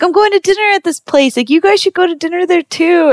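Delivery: high-pitched friendly imitation; super nice host. Host recommends dinner to guests, friendly and high. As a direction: offer it eagerly, like a helpful host. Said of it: "he was super nice".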